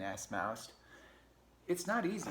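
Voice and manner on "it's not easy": high-pitched complaining critter; pack rat. Acted. Rat answers in story.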